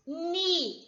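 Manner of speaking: NI said alone, held long; separate syllable. Shown as a demonstration. Teacher splitting menina for pupils, syllable by syllable. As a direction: isolate NI as a single syllable. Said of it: "é outra sílaba".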